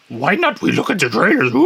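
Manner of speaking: high, silly creature croon ending in a hoot; Yoda. Acted. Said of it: "Was that Yoda speaking?".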